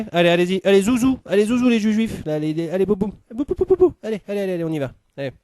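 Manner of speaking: high, loud barked orders; mock German guard yelling allez; shouting guard. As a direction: herd them on like a shouting soldier. Herding Jews onto trains, barking.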